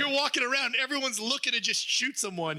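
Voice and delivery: mock urgent warning, pitched high; high-voiced cautioning of a movie character; imagined warning.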